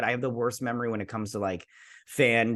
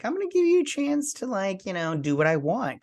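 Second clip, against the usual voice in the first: villain quote; 7 semitones higher than usual. Retold or imitated. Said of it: "she's all like".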